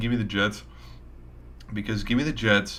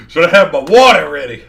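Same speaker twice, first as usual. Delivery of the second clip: voice giving out; 9 semitones higher, 17 dB louder than usual. Real, not acted. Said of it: "Sorry, my voice is giving".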